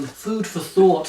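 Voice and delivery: slow, drawn-out pensive words. Acted. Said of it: "he typed out".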